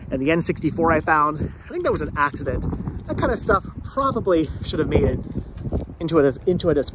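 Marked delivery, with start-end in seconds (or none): 3.1-6.9 teeth chattering from the cold; words stumbling while shivering. Real, not acted. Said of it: "I can't talk, it's so cold".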